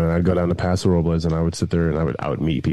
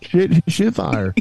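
high, slow hammed-up hick cry; mock Southern yokel; 10 semitones higher, much slower than usual. Joining the stereotype joke with his co-host, mock yokel drawl. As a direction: drag it out like a cartoon country boy.

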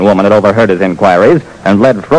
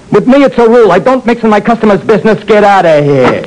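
higher, firm refusal; gruff bartender; 13 semitones higher than usual. Acted. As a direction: shut him down flatly. Bartender voiced.

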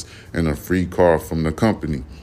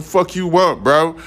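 imitating himself cussing someone out, pitched way up; mock aggressive yell; 10 semitones higher than usual. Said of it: "I'm like".

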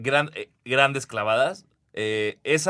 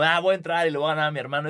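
cocky quote; 3 semitones higher, much faster than usual. Retold or imitated.

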